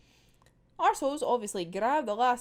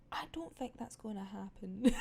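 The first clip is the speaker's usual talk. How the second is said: laughing whisper, softer; doubtful aside; 7 dB quieter than usual. Retold or imitated. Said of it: "Agent Twilight's just being like".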